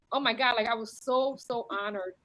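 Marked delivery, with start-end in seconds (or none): 0.1-0.5 retold gasp. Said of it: "I was like".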